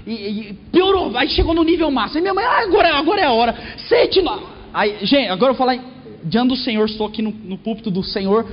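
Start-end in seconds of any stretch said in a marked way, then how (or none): 2.4-4.4 mock the mother feeling faint; mother in the shaking plane, high panicked cries.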